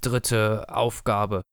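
sehr langsam und tiefer gemurmelt; vor sich hin gemurmelt. Acted. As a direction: murmel es gedehnt in dich hinein. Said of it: "murmelte er vor sich hin". (der Tod murmelt grübelnd vor sich hin)

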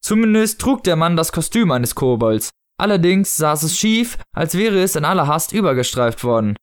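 measured audiobook narrator; story narration. A narrator's reading. Narrator describing the odd costume, story narration. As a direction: read the tale aloud, clearly articulated. Reads novel excerpt aloud.

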